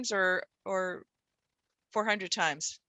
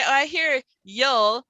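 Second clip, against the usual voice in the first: slow, louder, drawn out; child proudly reporting a sound; imitating student; 5 dB louder, much slower than usual. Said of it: "if they say".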